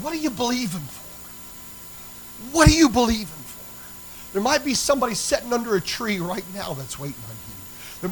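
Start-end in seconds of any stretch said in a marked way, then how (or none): 0.0-2.5 high, softer, drawn-out question; soft, slow question. Real, not acted. Preacher puts a searching question to the church, softly. 2.5-4.3 high, loud, drawn-out question; loud, slow challenge. Real, not acted. Preacher repeats his question to the church, forcefully.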